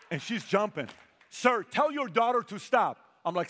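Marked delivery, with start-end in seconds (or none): 1.3-3.0 loud, high, slow retold demand; insistent complaint. Salesman to father of a jumping child, loud insistence. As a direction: imitate an exasperated salesman, every word pushed out.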